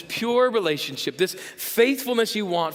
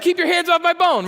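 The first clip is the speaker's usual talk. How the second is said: much higher and louder, a hammed-up growling shout; mock snarling yell; 11 semitones higher, 7 dB louder than usual. Pastor voicing a man guarding his bone, hammed-up loud snarl. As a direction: bark it like a dog protecting its bone. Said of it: "Here it comes".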